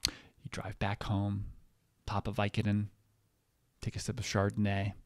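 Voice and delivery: deliberate announcer read with weighty pauses; mock public service announcement. Comedian delivering a satirical public service announcement, declamatory. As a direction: read it out like a formal statement.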